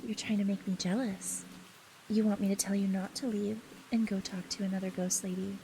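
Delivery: put-on possessive, menacing girlfriend; yandere voice. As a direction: tease like an obsessive yandere. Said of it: "practice the yandere a little bit more".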